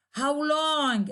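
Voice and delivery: "How long" high, then falling; falling intonation. Shown as a demonstration. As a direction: start up and glide down on "long". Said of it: "there is a falling intonation".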